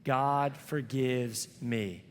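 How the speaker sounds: very slow, each word spaced for the crowd to follow; slow call-and-response affirmation; slow unison recital. Shown as a demonstration. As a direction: lead the congregation through it word by word. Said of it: "the phrase I want us to say together".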